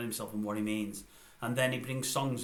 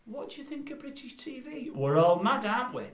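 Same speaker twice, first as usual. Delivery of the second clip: high mock question bursting into a loud finish; hammed-up zany voice; Rick Mail; 11 semitones higher, 4 dB louder than usual. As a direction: mimic a manic comic presenter. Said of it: "He just sounded like Rick Mail".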